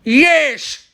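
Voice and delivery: sudden high, loud shout of yes; a hammed-up Irish yes; loud mock Irish yes. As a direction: blurt it out like a proud Irishman. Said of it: "That's not how Irish pe".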